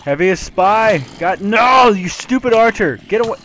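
high frantic shouting; yelling in alarm; panicked yelling. Real, not acted. Swarmed, joking then panicking.

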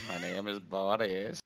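creepy voice. Pretend. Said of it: "you want to hear creepy".

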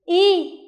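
y said high and loud, drawn out; "Y" sounded out clearly for children to copy; model pronunciation. Shown as a demonstration. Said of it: "Lắng nghe cô phát âm". (phát âm mẫu "Y" cao và to)

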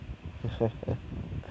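quiet breathy villainess chuckle; soft chuckle. Acted. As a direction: chuckle softly under the breath. Villainess laughs after marriage proposal.

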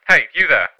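loud voice through a speaker; intercom voice. Acted. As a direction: call out over an intercom. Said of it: "said an intercom voice".

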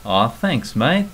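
casual Aussie thanks. Shown as a demonstration.

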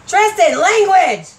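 mock-stern yell at a friend; scolding call. Real, not acted. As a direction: call out a warning across the room. Scolding someone off camera.

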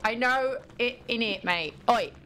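put-on Cockney "innit, mate"; London accent. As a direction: throw in some mock London slang and accent. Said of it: "Throw an in it in there, too".

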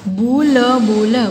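बु ल, बु ल in separate held sounds; syllable by syllable. Shown as a demonstration. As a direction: sound out बु ल, बु ल piece by piece. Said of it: "properly बोलना है". (बु ल, बु ल तोड़-तोड़ कर)

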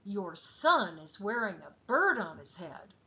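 a stern flight attendant's rebuke. Acted. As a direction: scold the mother firmly. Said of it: "the flight attendant spoke sternly".

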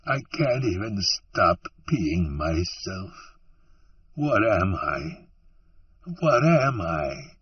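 slow, tearful pleading, voice turning strained; a broken man crying out who he has become; weeping. Acted. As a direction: Nort weeping in despair to Allie. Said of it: "He began to weep".

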